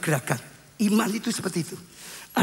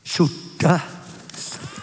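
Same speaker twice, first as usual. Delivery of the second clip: startled discovery; much slower than usual. Retold or imitated. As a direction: act out stunned realisation, word by word. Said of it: "Waktu cuci muka kaget". (kaget, terputus lalu sangat lirih)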